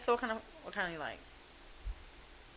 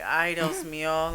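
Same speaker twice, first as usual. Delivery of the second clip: mock Spanish exclamation; 5 dB louder, much slower than usual. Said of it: "Or like".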